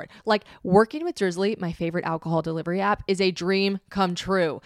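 upbeat, emphatic host-read ad; podcast ad read. Acted. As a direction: sell it like a delighted fan.

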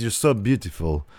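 a hint of Arnold, low-key; Arnold Schwarzenegger impression. Voicing Lashley to Lana in an Arnold accent. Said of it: "Why are you talking like Arnold?".

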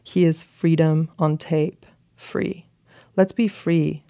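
slow, deliberate recital with long pauses; letter reading. Acted. Reading the friend's old letter back, slow and solemn. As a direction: read it out like earnest youthful poetry.

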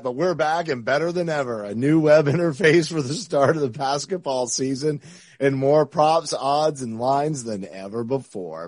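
smooth, even sponsor read. Acted. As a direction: read it like a calm ad spot. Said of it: "I love my ad read voice".

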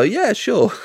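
high, breezy fob-off; smiling agreement. Shown as a demonstration. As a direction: agree pleasantly just to placate them. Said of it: "just to smile and nod and go".

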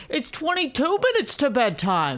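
mocking husband voice. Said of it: "Is that the voice?".

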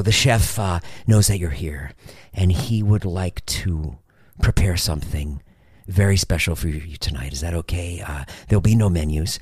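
a hint of formal fine-dining server; lightly voiced waiter. Voices waiters announcing the special meal.

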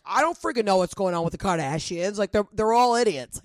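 mock-furious Italian guy griping about celebrities; angry Italian voice. Imitating her fiance on a podcast segment, mock angry Italian rant. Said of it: "in his angry Italian voice".

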